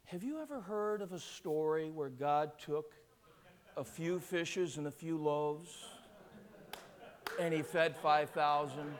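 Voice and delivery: low, soft storytelling from the pulpit; hushed preaching. Acted. Preacher recalling the loaves and fishes to a congregation, hushed. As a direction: draw the congregation in quietly.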